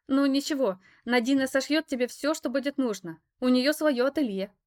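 put-on high, loud chattering girl; chirpy girl. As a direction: chatter on like an eager hostess. Alisa shows her the room.

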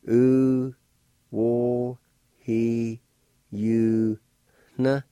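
U, wo, he, you, na with a faint h sound before the na. Shown as a demonstration. Teacher showing learners the faint h before na. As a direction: sound out U, wo, he, you, na one syllable at a time. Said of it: "like this".

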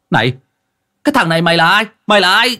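high, loud angry yell at a stranger; angry shout. A narrator's reading. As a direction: demand who he is, yelling. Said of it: "quát lên".

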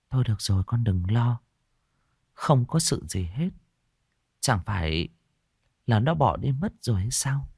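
put-on calm her like a frightened child; comforting. Mị soothes the sobbing girl, softly reassuring. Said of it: "rồi an ủi".

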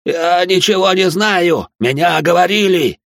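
отчаянный протяжный крик, высоко и громко; кричи медленно, из последних сил; крик под пыткой. Acted. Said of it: "закричал иудей". (иудей на дыбе кричит инквизиторам, отчаянно и громко)

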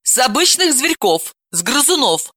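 a touch of wonder; surprised. Acted. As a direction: explain with slight astonishment. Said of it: "удивилась она".

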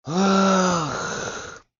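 high sorrowful sigh. A narrator's reading. Oblomov lamenting the city noise, sorrowful sigh. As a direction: let out a woeful ah. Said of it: "горестно вслух вздохнул".

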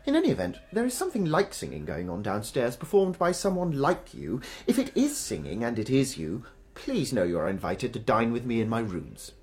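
lightly grand reading voice; letter dictation. Acted. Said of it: "My dear Tosca".

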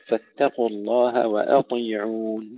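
وأطيعون with thin hamza then thick T; light hamza heavy ta. Shown as a demonstration. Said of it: "ترقيق الهمزة أيضًا قبل تفخيم الطاء". (ترقيق الهمزة وتفخيم الطاء)

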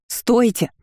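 high shout; yell with all her strength. A narrator's reading. Heroine yells at the guards with all her might. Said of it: "заорала, что было сил".

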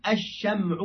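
"الشمع" as ash-sham'u, mim vowelless; sukun on the mim. Shown as a demonstration. Teacher spelling out the book's word, "الشمع" with sukun on mim. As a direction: say "الشمع" with fatha on shin, silent-vowel mim. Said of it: "الشين وسكون الميم".

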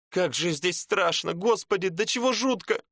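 high, rising frightened cry; a woman on her knees, terrified; terrified wail. Acted. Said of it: "упала на колени и зарыдала".

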